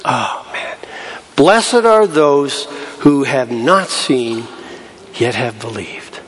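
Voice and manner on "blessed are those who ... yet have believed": slow, softening, fading to the end; tender blessing. Acted. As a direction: bless them gently, slowly. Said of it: "by saying to him".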